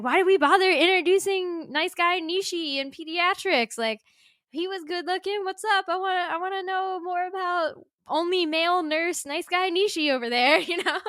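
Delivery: playful fangirl whine; mock excited protest. Retelling excited complaint about Nishi.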